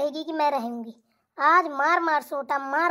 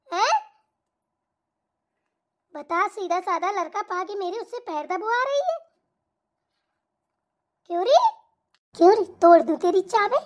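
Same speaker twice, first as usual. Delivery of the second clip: scolding mother-in-law. Acted. Mother-in-law berates her son for pressing his wife's feet. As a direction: tear into her in bursts like a fierce mother-in-law.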